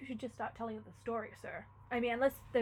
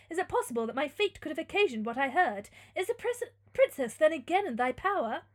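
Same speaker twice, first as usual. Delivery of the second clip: put-on louder, earnest young hero; questioning youth; 5 semitones higher, 7 dB louder than usual. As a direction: ask it as a troubled gothic hero.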